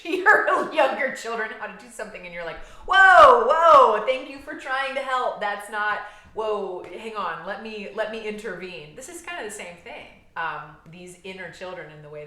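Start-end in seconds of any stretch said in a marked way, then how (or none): 2.9-9.0 loud, high whoas easing into hurried interjection; mock alarmed parent. Parent stopping older child teaching younger one, mock alarm. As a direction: burst in loudly to halt a child, then ease off.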